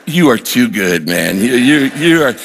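prayer broken up with laughter; retold laughing prayer to God; laughing through the words. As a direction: laugh while you thank him. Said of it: "and I'm laughing".

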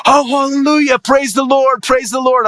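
pitched well up, exultant hallelujah; the pastor bursting into praise on hearing the news; joyful praise. Retold or imitated. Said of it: "This pastor just started praising the Lord".

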